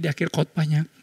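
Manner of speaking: usual speaking voice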